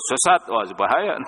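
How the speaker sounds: abrupt warning, "Sesat, wah, bahaya" with mock alarm; blunt alarm. Shown as a demonstration. Preacher showing the harsh way to tell someone, mildly alarmed. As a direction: hit it like a stern alarm bell. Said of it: "Jadi intonasi kadang-kadang berpengaruh".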